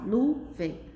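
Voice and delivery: "nuvem" partida em nu, vem; separação silábica. Shown as a demonstration. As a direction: pronuncie "nuvem" em duas batidas separadas. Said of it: "São palavras formadas por duas sílabas". ("nuvem" silabada para a turma)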